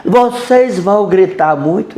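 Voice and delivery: mock the neighbour's harsh yelling; harsh retold yell. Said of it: "Isso gritando mesmo, assim, bem alto, bem áspera". (imitando um grito áspero)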